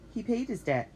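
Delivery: lightly voiced cheerful old man; a hint of jolly gentleman. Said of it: "said Mister Pelham happily".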